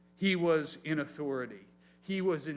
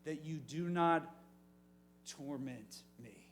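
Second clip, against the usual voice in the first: demon begging; 3 dB louder than usual. Acted. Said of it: "the demon begs".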